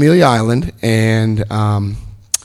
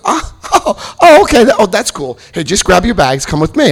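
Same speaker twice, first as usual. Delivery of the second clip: mock-friendly orderly; 4 semitones higher than usual. Orderly suddenly friendly in story.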